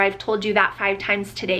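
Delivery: ordinary delivery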